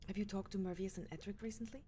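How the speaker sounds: soft unvoiced whisper; whispered question. Leader quietly asking the guard captain about Edric, whispered.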